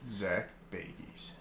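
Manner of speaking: slow, dragged-out disdain; drawn-out skeptical. Real, not acted. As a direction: drag the name out doubtfully. Skeptical repeat of host's name.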